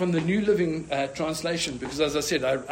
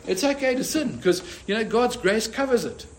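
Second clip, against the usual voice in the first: mocking false teachers; 5 semitones higher than usual.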